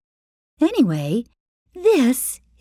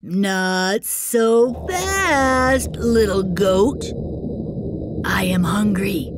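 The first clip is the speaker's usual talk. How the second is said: troll voice; slower than usual. Acted. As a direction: growl it out slowly as the troll. Troll speaks.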